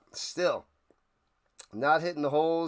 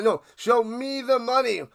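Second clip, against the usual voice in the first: insistent shout; 6 semitones higher, 3 dB louder than usual. Acted. Insisting in the scene.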